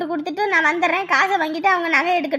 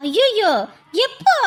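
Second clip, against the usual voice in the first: shocked; slower than usual. Acted. Shocked at news of death.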